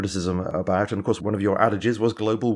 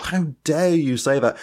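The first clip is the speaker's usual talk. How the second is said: sharp, higher, indignant rebuke; retold outrage; 5 semitones higher than usual. Lord Monckton rebuking an audience member, outraged. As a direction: throw the outrage back at the questioner. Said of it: "And he was outraged".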